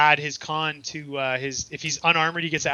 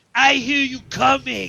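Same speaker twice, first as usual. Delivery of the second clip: very high, drawn-out, bellowing monster yell; 10 semitones higher, 5 dB louder than usual. Voicing a bugbear who hears the party approach: bugbear yelling. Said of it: "he yells".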